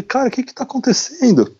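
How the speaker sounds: breathy whispered question with no voice; retold whisper. Traveler frightened by the knock, whispering to himself. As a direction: whisper it as if scared to be heard.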